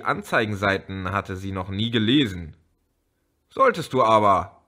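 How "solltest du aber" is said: louder, insistent call; emphatic raised retort. Acted. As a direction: push the point hard. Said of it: "rief Elmar".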